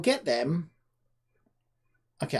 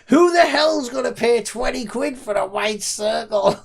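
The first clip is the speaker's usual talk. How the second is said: reading it out through laughter, slow and high; laughing quote; 8 semitones higher, 9 dB louder, slower than usual. Retold or imitated. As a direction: crack up while reading the comment. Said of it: "the comments were like".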